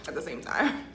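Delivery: talking while chewing; words round a bite of food; mouth full. Real, not acted. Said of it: "I can't eat and talk".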